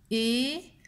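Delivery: "Éclair" split after é, with the L of clair held long; every sound drawn out. Shown as a demonstration. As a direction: stretch "Éclair" so every sound can be heard. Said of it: "Écoutez bien tous les sons de cette dernière syllabe". (« Éclair » très lent, chaque son bien détaché)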